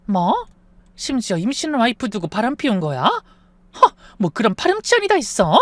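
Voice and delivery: high, scandalised gasp and tut; shocked gossip. Acted. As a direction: act outraged at the scandal. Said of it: "더 수근거렸어요".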